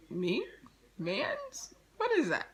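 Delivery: high-pitched mock confusion; feigned innocence. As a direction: play innocent, pitch lifting on the questions. Retold feigned ignorance about boyfriend.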